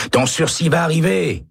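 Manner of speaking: high, carrying call to a cellmate. A narrator's reading. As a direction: shout hope down the corridor. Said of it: "crie Jorgensen". (crié très haut à Baca)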